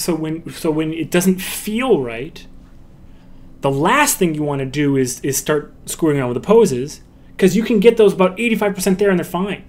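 ordinary talk

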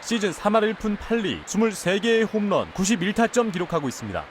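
echoing stadium announcer. Acted.

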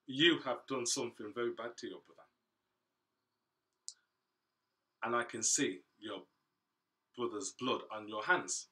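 stern rebuke. Acted. God rebukes Cain sternly.

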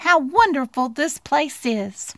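mild storybook wonder; murmuring Little Mouse. Acted. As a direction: marvel gently as a small mouse. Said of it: "murmured Little Mouse".

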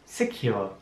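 quiet careful "Secure"; "Secure" softly for learners; slow and soft. Shown as a demonstration. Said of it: "Ich sag das Wort noch einmal langsam".

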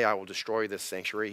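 "I" stressed, the misquote. Shown as a demonstration. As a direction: lean on "I will destroy". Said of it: "Jesus didn't say".

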